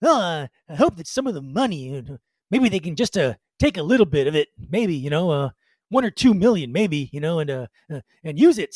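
lightly voiced rambling singer impression, halting; a folk singer. Radio host imitating a singer's speech to a worldwide audience, light rambling impression. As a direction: swoop up on key words, then let them sag. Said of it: "do my best folk-singer voice".

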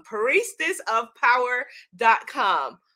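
"Priestess of power dot com" slow and spaced out; slow emphatic repeat. Shown as a demonstration. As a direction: stretch "Priestess", then set "dot com" apart. Web address repeated slowly.

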